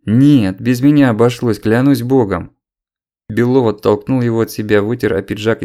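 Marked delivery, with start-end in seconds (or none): 0.1-2.6 loud frightened denial; pleading loudly. Acted. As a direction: swear it desperately, at full voice. Frightened denial under threat.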